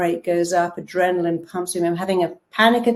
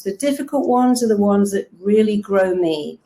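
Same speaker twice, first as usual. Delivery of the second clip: usual speaking voice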